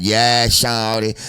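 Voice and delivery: slow drawled "Yeah, shawty" with a light Southern twang; mock rapper twang, slowed. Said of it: "he got this little twang in his voice".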